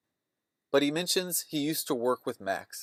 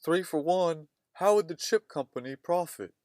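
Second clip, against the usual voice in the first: Thelma Louise tone; 4 semitones higher than usual. Retold or imitated. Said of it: "much in a Thelma Louise tone".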